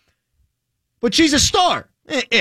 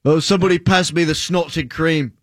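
put-on British accent. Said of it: "That's a great British accent".

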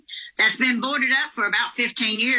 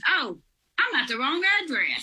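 retelling the worker's line through laughter; laughing quote; 3 semitones higher than usual. Retold or imitated. Caller laughs while quoting the worker's wrong-address excuse. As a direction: laugh as you deliver his excuse. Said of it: "he says".

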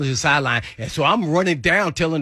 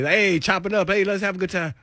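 teammate on the phone, lightly voiced, pitched up; a hint of a menacing game-day caller; changed game-mode voice; 6 semitones higher than usual. Former teammate calling before the game, mock menacing voice. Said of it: "his voice is totally different".

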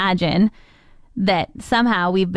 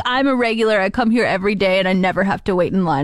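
put-on grumpy old man. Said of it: "You're sounding like an old man".

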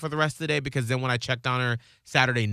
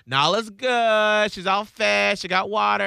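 imitating mom; 9 semitones higher, 4 dB louder, slower than usual. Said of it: "She goes".

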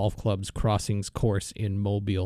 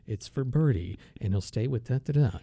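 hushed golf radio play-by-play; golf commentator. Retold or imitated. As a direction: call the putt like a radio golf announcer. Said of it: "You ever heard golf on the radio".

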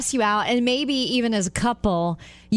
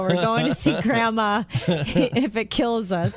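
forced cheer; 3 semitones higher, slower than usual. Retold or imitated. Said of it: "It was just like".

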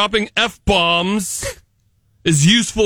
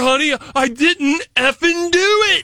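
mock excuse to honey; 8 semitones higher than usual. Acted quote of swearing excuse.

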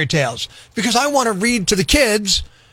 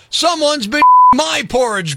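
deep bear growl; 7 semitones higher, 4 dB louder than usual. Acted. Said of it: "growled Papa Bear".

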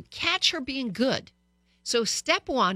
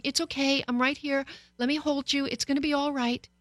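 soothing mommy voice; 5 semitones higher than usual. Retold or imitated. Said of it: "the compassionate me going".

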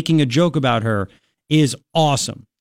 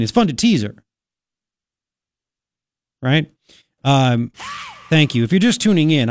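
brisk talk-radio delivery; radio host read. Acted. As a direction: read the segment for listeners on air.

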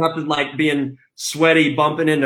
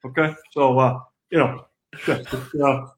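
lightly voiced football coach, folksy and halting; a hint of the old coach rambling with lots of "you know"; light imitation of a head coach talking to press; Kirk Ferentz impression. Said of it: "recreate for us in his voice".

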